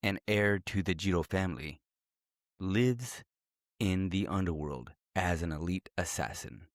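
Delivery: movie trailer voice. Acted. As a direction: read it like a dramatic movie trailer. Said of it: "Let me put on my, my movie voice".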